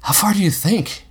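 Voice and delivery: put-on boy impatient in the thick bush; eagerly. A narrator's reading. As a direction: ask eagerly like a kid. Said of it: "he asked Robbie eagerly".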